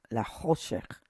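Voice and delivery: "La Choshech" with a clear "oh" after the first ch; O vowel. Shown as a demonstration. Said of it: "this little dot right here is".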